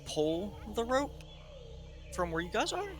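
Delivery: half-hearted call across a gap, rising at the end; mild pretend shout, voice lifting on the last words. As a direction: stretch it out like calling over, without real volume. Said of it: "Gonna, like, shout across".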